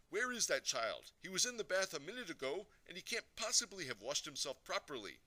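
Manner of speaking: high, loud, fussing complaint; a mother calling out for a missing child; exasperated mother. A narrator's reading. Mummy looking for her boy in the bath, exasperated.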